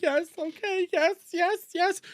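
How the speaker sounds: mock the pushover who just says yes; meek Jer. Streamer mocking Jer for caving to a bully, high squeaky yeses. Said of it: "And Jer just go like".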